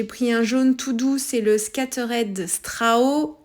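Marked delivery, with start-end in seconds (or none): 1.6-3.4 English name in a French accent, slowly. Real, not acted. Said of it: "avec mon accent français".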